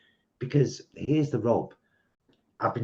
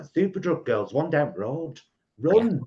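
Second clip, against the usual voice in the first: excited; 6 semitones higher, 5 dB louder than usual. Retold or imitated. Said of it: "And I'm like".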